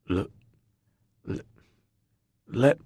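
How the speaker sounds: put-on slurred, stammering drunk; drunken slur. A narrator's reading. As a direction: stumble over it, too drunk to speak. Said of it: "my voice is slurred and pathetic".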